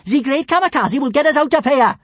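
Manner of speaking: high, loud boastful shout. Acted. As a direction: proclaim it proudly. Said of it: "shouted Kamikaze".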